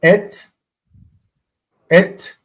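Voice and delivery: "Et" twice, then "hash", long pauses between; slow deliberate reading. Shown as a demonstration. Teacher reading slowly for learners, isolated careful syllables. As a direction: sound out "Et" and "hash" one at a time. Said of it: "I just want to read slowly".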